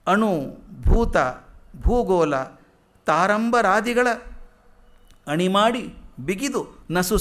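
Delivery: slow, measured verse reading; slow chanted Kannada poem; poem recitation. Acted. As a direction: recite the verse slowly and with weight.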